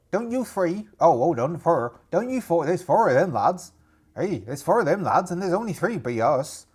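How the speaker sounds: put-on pirate voice staking a claim; territorial rival pirate. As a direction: warn off the newcomers in pirate dialect. Voices rival pirate guarding chest.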